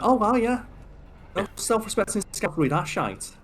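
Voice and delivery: put-on high-pitched botched Scouse accent; Scouse slipping into Scottish. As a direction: attempt Scouse, drift towards Scottish. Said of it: "like, slipping onto Scottish".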